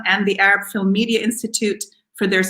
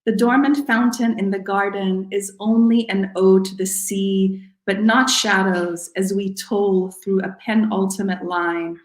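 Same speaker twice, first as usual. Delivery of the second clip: measured poem recital with falling line endings; poetry reading. Acted. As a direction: read it as a poem, phrase by deliberate phrase. Reads own poem aloud.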